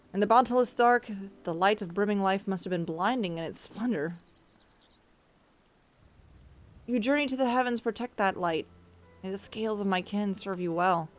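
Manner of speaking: put-on solemn dragon blessing with rough Russian accent; formal farewell in an unsure Russian-like accent; attempted Russian accent. Dragon blessing a traveller's journey, amateur Russian accent. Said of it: "basically a dragon doing an accent".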